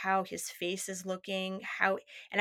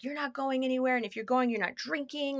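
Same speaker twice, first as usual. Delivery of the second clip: put-on controlling boyfriend; 4 semitones higher than usual. Retold boyfriend laying down rules.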